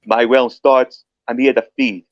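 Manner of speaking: slow, put-on New York accent; West New York accent. Shown as a demonstration. British guest trying American dialects, slow mock New York accent. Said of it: "that's my West New York accent".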